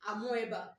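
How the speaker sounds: Amoeba said a-mo-E-ba, O and E both sounded; spelling pronunciation. Shown as a demonstration. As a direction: say Amoeba as it is written, a-mo-eh-ba. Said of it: "amoeba is not the right pronunciation".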